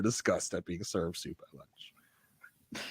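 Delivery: soft whispered aside. Real, not acted. Co-host whispers a delighted aside about the soup scene. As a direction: lean in and whisper it. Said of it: "whispered aside".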